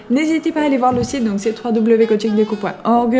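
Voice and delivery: talking through a stuffy nose; nasal from a head cold; blocked nose. Real, not acted. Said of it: "j'ai le nez bouché".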